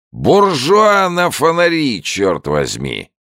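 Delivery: put-on drawn-out drunken shout; drunk old man bellowing again. A narrator's reading. Drunk old man greeting the soldier, slow bellow. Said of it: "воскликнул старик".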